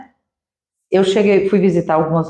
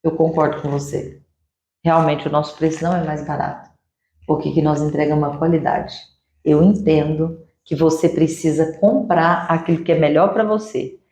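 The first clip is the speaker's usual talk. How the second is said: calm agreeing reply; 4 semitones lower than usual. Shown as a demonstration. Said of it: "surpreenda, ele fala".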